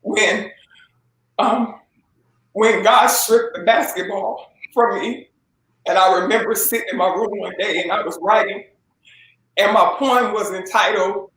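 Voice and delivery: halting, emotional testimony with long pauses; getting emotional. Real, not acted. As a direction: struggle through the memory, pausing to regain composure. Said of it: "I'm getting emotional".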